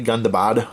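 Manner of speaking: Gundabad ending in an open "bahd"; "Gundabad", last syllable rhyming with "nod"; alternative Gundabad pronunciation. Shown as a demonstration. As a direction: say Gundabad with a broad final a.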